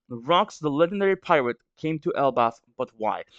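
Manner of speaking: blocked-nose reading voice; reading with a stuffy head cold. Real, not acted. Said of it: "I might sound a little stuffy".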